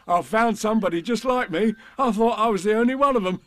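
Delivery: high, excited tiger voice with laughter; Tigger. A narrator's reading. Tigger amazed at his reflection, high and excited. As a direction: gush as a bouncy tiger. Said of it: "said Tigger".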